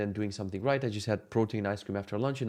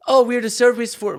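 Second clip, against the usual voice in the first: high, loud imitation Polish accent; 11 semitones higher, 8 dB louder than usual. Service people arriving at the house, mock Polish accent. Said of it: "with way heavier Polish accent".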